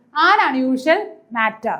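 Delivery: very slow, carefully spelled-out phrase; slow teaching example; slow demonstration. Shown as a demonstration. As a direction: say it slowly so the an is heard. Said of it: "So ഇവിടെ എന്തായിരിക്കും".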